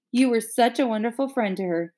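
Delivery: a hint of mushy movie mimicry; lightly mock the tearful thanks; mushy mockery. Mimicking Bill's mushy thanks, mildly mocking. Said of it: "laugh at and imitate later".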